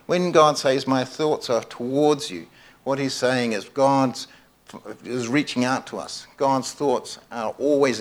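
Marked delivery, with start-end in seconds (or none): 0.9-2.5 "towards" drawn out, falling onto "you"; measured quote, weight on "towards"; stress on TOWARDS. Shown as a demonstration. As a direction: lean slowly on "towards". Repeats the key word.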